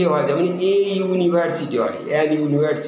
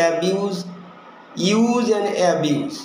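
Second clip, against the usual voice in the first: slow teaching; much slower than usual. Shown as a demonstration. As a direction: use and abuse drawn out very slowly. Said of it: "the এর ব্যবহার". (খুব ধীরে টেনে টেনে বলা)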